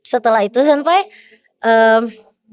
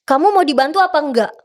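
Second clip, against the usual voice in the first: mildly raised-pitch, pushy question; pressing official; 4 semitones higher than usual. Retold or imitated. NOC official confronting the athlete, pressing tone. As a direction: put it to them as a pointed challenge. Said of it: "Dengan nada ngomongnya kayak gitu".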